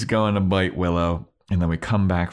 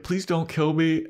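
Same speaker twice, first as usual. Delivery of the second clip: high pleading falsetto; mock falsetto plea; Willow pleading; 11 semitones higher than usual. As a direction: beg in a squeaky girl voice.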